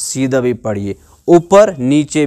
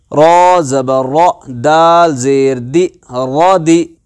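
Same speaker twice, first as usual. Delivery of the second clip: measured chant with drawn-out letter names; teacher leading a syllable drill; spelling drill recitation; much slower than usual. Shown as a demonstration. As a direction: recite each letter and vowel steadily, then join them.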